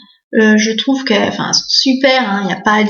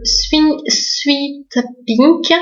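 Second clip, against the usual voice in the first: French-accented English; 3 semitones higher, much slower than usual. Real, not acted. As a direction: Swing Sweet Pink said slowly with a heavy French accent. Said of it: "désolée pour mon anglais".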